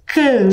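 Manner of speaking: "can" drawn out on its own; lengthened, questioning "can"; isolated syllable. Shown as a demonstration. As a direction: sound out "can" as a separate syllable. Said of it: "Olha a sílaba can".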